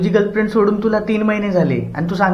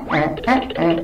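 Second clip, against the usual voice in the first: deaf man's groans; 4 dB quieter, much slower than usual. Retold or imitated. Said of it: "नुसता ॲ".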